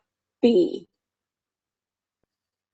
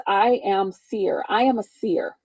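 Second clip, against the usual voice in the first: slow solemn affirmation; 4 dB quieter than usual. Retold or imitated. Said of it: "I started claiming the words".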